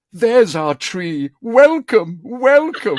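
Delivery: high, loud, drawn-out cheer; mock delighted welcome. Director greeting the chosen first take, mock elation. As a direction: hail it like a great discovery.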